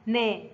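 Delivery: نا sounded out as a model syllable; نا with fatha. Shown as a demonstration. Teacher repeating the fatha rule, نا sounded out clearly. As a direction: say نا as n plus a fronted a. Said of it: "النون فوقها فتحة تنطق".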